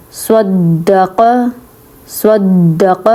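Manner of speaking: صدق slow, with a pause and weight on the doubled د; doubled letter stressed. Shown as a demonstration. Teacher stresses the shadda on صدق. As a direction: press and hold the د in صدق. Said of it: "مشدد ہے اس پہ تھوڑا سا ہم نے زور دینا ہوتا ہے".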